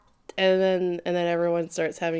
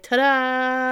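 higher, louder gift reveal; mock ta-da; 6 semitones higher, 4 dB louder than usual. Presenting the manga as a Valentine's gift, mock ta-da. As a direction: present it with a flourish. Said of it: "It'd be like".

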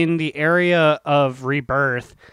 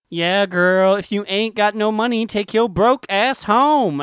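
sassy; 5 semitones higher than usual. Acted. Sassy quoted saying.

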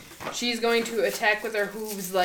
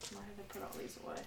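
eating chocolate; 21 dB quieter, much faster than usual. Real, not acted. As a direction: mouth full of chocolate. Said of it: "my mouth was full of chocolate".

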